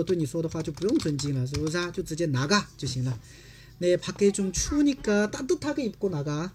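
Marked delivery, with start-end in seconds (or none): 3.8-6.5 fast, natural Korean read-through. Shown as a demonstration. Teacher rattles off the mother's line, fast. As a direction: run the line quickly like a native. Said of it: "teacher reads sentence quickly".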